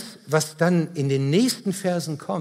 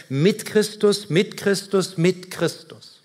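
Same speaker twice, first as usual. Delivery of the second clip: "mit Christus" slow and measured each time; emphatic repetition; 3 semitones higher than usual. Real, not acted. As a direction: hammer home every "mit Christus", easing off slightly. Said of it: "das wird hier ständig betont". („mit Christus“ nachdrücklich und langsam wiederholt)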